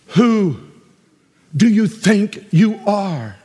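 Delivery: "Who do you think you are?" said slowly, every word spaced out; slow, drawn question. Shown as a demonstration. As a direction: drag out the question. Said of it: "We could have said it a different way".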